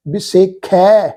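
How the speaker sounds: ਵਿਸੇਖੈ with a full open ਖੈ ending; careful pronunciation. Shown as a demonstration. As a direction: stretch the final ਖੈ slowly. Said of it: "ਖੈ ਖੱਖੇ ਤੇ ਦੁਲਾਵਾਂ ਦਾ ਪਾਠ ਆ".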